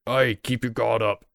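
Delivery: lightly acted guard calling to the others; distant guard shouting. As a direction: call a warning across camp without much volume. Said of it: "they begin shouting".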